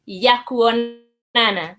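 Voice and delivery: Ya kuonana said slowly; slow demo. Shown as a demonstration. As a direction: model ya kuonana for learners. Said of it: "I can go ahead and say".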